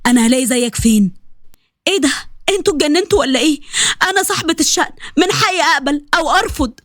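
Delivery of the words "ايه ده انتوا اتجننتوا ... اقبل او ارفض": higher, fast, indignant outburst; indignant protest. Acted. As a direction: daughter objecting to her father's decision. Sally objects to marriage decision. (احتجاج غاضب بصوت أعلى)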